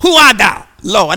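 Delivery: mild awed question; Paul asking. Acted. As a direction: ask in awe. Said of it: "And he said".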